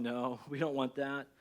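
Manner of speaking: soft, slow "No, we don't want that"; a hushed collective no; quiet slow refusal. Retold or imitated. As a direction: murmur it slowly, like the whole room answering. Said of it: "aren't we all going".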